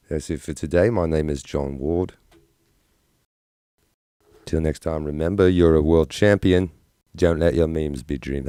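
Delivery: British-Australian accent, rising line ends. Shown as a demonstration. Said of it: "British and Australian all at once".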